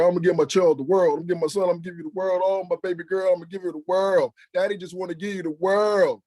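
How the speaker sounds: high, loud, gushing parent voice; mock a parent lavishing promises on a child; doting parents. Preacher imitating parents promising their children everything, in a high gushing voice.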